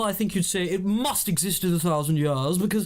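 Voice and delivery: lightly put-on posh voice; pompous upper-class opinion; mock toff holding forth; posh speaker. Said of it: "What would I say"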